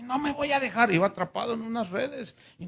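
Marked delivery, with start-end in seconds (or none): 0.0-0.9 high, firm refusal; defiant Pepe. Acted. Pepe resisting capture, high and defiant. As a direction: set your jaw and refuse.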